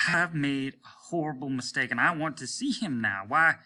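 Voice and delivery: high, rising urgent plea; feverish. A narrator's reading. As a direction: race into obsession. Captain's rising obsessive plea.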